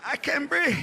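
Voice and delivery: high, breathless gasps of a sick uncle; gasping uncle. Retold or imitated. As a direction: wheeze it out like he's dying. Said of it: "he's all crouched up on the couch".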